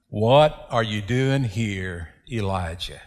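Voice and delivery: soft, low and slow, fading to a near-whisper; gentle whisper. Acted. The still small voice of God asking Elijah, quiet. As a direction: speak it like the gentle whisper after the fire.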